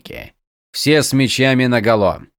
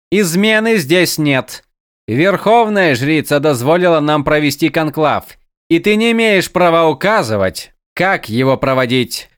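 angry defiance; 4 semitones higher, 4 dB louder than usual. Acted. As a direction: stand up to him, angry and loud. Чародейка гневно спорит с лордом. (гневный, громкий отпор)

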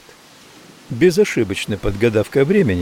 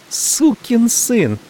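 higher, slow, hurled insult; furious curse; 11 semitones higher, much slower than usual. A narrator's reading. Maggie raging at the narrator, slow high insult. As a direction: drag each word out in rage.

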